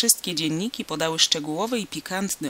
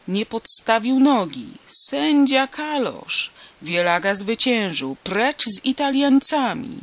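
louder, higher angry cries from the stands; crowd protest shouts; 5 semitones higher, 5 dB louder than usual. A narrator's reading. The angry crowd jeering the referee, loud shouts. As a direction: yell down the referee.

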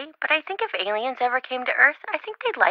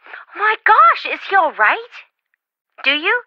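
alarmed gasp; 10 semitones higher, 4 dB louder than usual. Acted. Friend hears alarming news.

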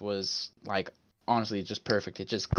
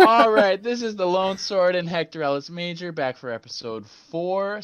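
newscaster voice; 7 semitones higher, 5 dB louder than usual. Acted. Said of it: "fucking newscaster voice".

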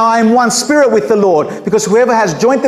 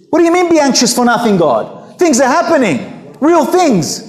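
mock protest; 5 semitones higher than usual. Imagined worried believer protesting to God.

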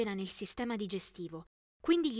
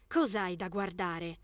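slow, low slurred mumble; mumbling; 4 semitones lower, slower than usual. Retold or imitated. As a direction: drag the words out, half tipsy. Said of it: "poi farfugliai".

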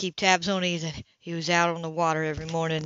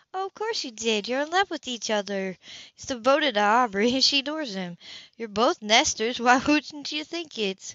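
Anna's voice; 5 semitones higher than usual. Acted. Anna voices support, higher.

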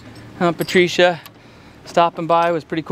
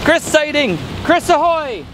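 pirate lookout call; 9 semitones higher than usual. Pretend. Calling out like a lookout.

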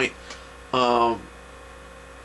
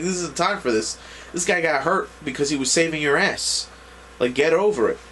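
mildly exasperated, higher-pitched retold rebuke; impatient scolding; 4 semitones higher than usual. Retelling him telling off the traumatized woman, impatient scolding. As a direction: scold lightly, acting out someone fed up.

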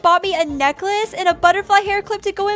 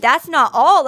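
emphatic exclaimed line, a bit lower; 5 semitones lower, 4 dB louder than usual. Acted. Stylist teasing another gift, exclaimed. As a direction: announce it like a big surprise. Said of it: "Exclamation point".

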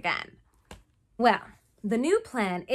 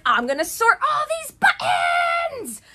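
high, loud and chirpy; mock eager shout; 8 dB louder than usual. Kate vows to sort buttons, hammed-up cheerful shout. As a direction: cheerfully declare the chore, hammed-up. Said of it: "She's just like".

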